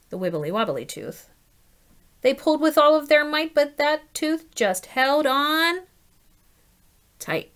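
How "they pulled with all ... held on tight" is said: effortful read, higher and louder, slowing into suspense; big effort. A narrator's reading. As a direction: heave and hold the breath before the word. Biggest pull, held suspense.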